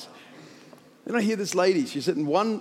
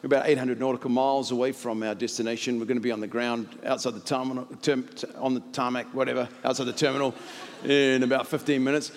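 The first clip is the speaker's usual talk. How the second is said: lightly voiced airline pilot on the intercom; understated, routine pilot patter; pilot announcement; 3 semitones lower than usual. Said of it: "the pilot comes on, starts saying".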